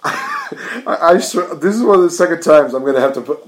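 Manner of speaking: real irritation bursting out; pissed off. Real, not acted. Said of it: "I am so pissed off".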